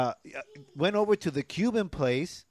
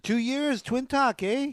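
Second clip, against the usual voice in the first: excited; 10 semitones higher, slower than usual. Real, not acted. Proud anniversary announcement.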